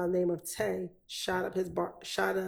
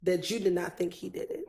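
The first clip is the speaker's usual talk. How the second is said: statement turned question by a rise on "did it". Real, not acted. Lawyer puts the witness's statement back to him, questioning rise. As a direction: lift "did it" at the end like a question. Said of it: "her voice goes up at the end".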